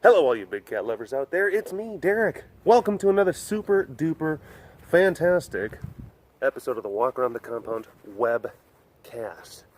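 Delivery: bubbly host welcome, pitch lifting on the hype words; show intro. Acted. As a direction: greet the viewers like a cheery show host. Opening the webcast.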